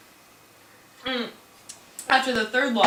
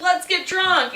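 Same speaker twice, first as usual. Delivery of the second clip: higher-pitched, stoked party shout-out; playfully voiced excitement; 5 semitones higher, slower than usual. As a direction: imitate someone thrilled to celebrate. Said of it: "super stoked on it".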